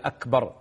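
"أكبر" as akbar, short final a; correct short vowel. Shown as a demonstration. Sheikh giving the lawful wording, correct short vowel. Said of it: "واللفظة الشرعية".

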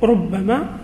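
ربما with the doubled b, rubbamā; ربما said with a stressed, doubled b; with the shadda. Shown as a demonstration. Teacher contrasting the Tamim reading of ربما. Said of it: "بنو تميم يقولون".

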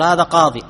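قاضي ending on a bare long -i; no case ending. Shown as a demonstration. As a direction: say قاضي with no vowel after the ya. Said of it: "لم تظهر الحركة". (نطق قاضي بياء ساكنة دون حركة)

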